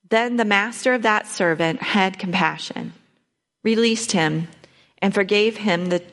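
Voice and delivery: steady, measured reading of the Gospel; scripture reading. Acted. Reading scripture aloud to the group, measured. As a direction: read the parable clearly to the group.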